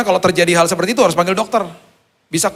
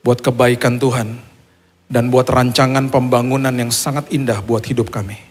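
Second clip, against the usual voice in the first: steady, earnest public prayer; measured prayer, projected evenly in long phrases; congregational prayer; 3 dB louder than usual. Real, not acted. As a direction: lead the congregation in thanks to God. Leads closing prayer.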